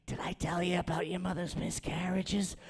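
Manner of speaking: a hint of a chain-smoking aunt; smoker aunt. Comic showing a lost voice as a smoker aunt, lightly voiced. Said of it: "somebody's aunt who smokes in the house".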